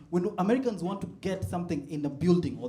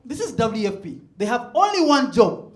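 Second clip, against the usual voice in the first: mock outrage; 4 semitones higher, 8 dB louder than usual. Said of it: "And I was like".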